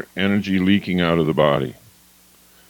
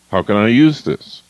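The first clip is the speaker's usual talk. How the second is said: louder, confident can-do voice; energetic owner voice; 6 dB louder than usual. Shown as a demonstration. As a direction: ask it with drive and curiosity. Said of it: "The owner".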